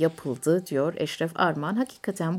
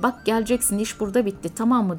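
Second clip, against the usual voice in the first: mildly irritated, higher-pitched retelling; 4 semitones higher, faster than usual. Retold or imitated. Man on his phone laying down terms, mildly irritated. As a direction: imitate a man getting testy, lightly. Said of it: "gayet asabi bir ses tonuyla".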